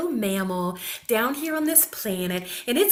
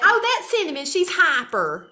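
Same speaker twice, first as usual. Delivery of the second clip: mock adult voice; 6 semitones higher, 3 dB louder than usual. Mimics adults from her childhood.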